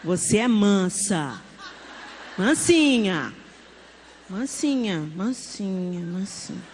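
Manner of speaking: put-on drawn-out, calming murmur to a toddler; soothing mother. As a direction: repeat it like a lullaby, dying away. Mother soothing toddler after tantrum.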